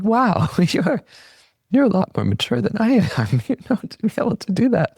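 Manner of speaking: high, laughing, amazed praise; laughing admiration. Retold or imitated. To her daughter in the car, laughing admiringly. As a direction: gush through laughter at her maturity. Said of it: "And I was like".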